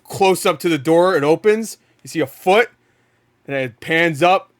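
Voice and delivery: pitching an imagined trailer with loud excitement; hyped trailer pitch. Acted. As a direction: build the hype shot by shot. Acting out an imagined trailer reveal.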